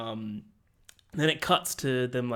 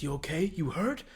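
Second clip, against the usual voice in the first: lightly voiced concern, rising questions; caring concern; 5 semitones higher than usual. Joel goes up to Ellie, imitated caring concern. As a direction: imitate an anxious check-in, pitch lifting at the end. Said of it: "he's, like, really caring for her".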